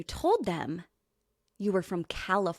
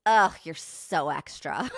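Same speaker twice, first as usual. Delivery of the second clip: scornful jeer; 3 semitones lower than usual. Retold or imitated. Woman sneers at her passing.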